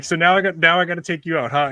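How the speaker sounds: hammed-up threat; mock threat. Threatening the possum.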